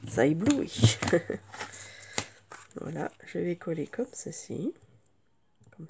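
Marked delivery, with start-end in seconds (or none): 1.0-2.3 brief laugh to oneself; quick amused laugh; short chuckle. Real, not acted. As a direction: let out a small chuckle after the remark. Laughs after own dazzle remark.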